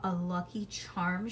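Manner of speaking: ordinary delivery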